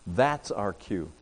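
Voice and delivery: hushed repeat of the point; quiet repeat. Shown as a demonstration. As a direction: let it sink in quietly. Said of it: "and that's our cue".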